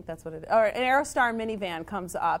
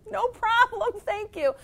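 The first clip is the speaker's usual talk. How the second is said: dazed politeness; 12 semitones higher, 3 dB louder than usual. Retold or imitated. Dazed teacher answers the child.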